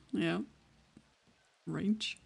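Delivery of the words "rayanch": "ranch" with an ay glide, "raynch"; stretched ranch vowel. Shown as a demonstration. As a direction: slide "ranch" towards "ray-anch". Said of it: "R A Y A N C H".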